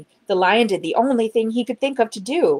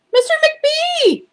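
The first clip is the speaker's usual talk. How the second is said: slow, high, loud call down the hall; 7 dB louder, slower than usual. Acted. Injured librarian calling her colleague, slow high loud call. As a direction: call for help from far away. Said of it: "she called after a minute".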